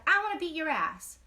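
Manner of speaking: retelling the girl's threat with a mocking edge; quoting the bully. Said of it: "She's like".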